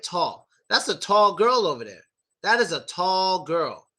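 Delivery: "tall" ending W-like, tongue never rising. Shown as a demonstration. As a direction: keep the tongue down at the end of "tall". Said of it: "My tongue never goes up".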